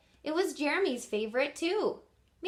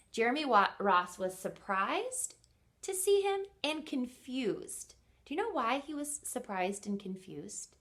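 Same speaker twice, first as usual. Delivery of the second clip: teacher asking. Real, not acted. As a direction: pause and ask the class. Teacher questions the listener.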